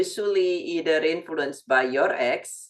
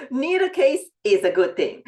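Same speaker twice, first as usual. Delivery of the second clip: higher and fast, laughing through it; 7 semitones higher, 4 dB louder, faster than usual. Real, not acted. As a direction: say it while still laughing. Laughs while making her point.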